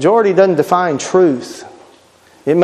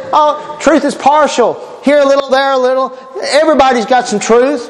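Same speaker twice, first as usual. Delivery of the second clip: mocking the world; 5 semitones higher than usual. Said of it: "the world says".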